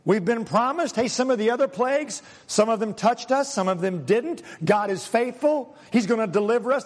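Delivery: brisk, upbeat and sure; confident man. Retold or imitated. Confident Israelite telling his worried friend, upbeat. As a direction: reassure your friend with conviction. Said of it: "one guy's confident".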